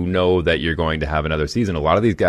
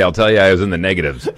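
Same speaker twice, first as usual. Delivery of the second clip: laughing; 4 semitones higher, 5 dB louder, faster than usual. Real, not acted. Laughing through a sick-day joke.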